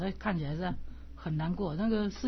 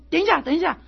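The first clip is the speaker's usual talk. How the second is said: calling out; 8 semitones higher, 7 dB louder, faster than usual. Retold or imitated. Crowd calling out at funeral.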